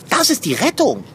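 loud, high eureka; triumphant. Acted. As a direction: announce the rescue in triumph. Cat finds the chewing gum.

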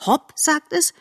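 excited. Acted. Fawn imitates the jump call.

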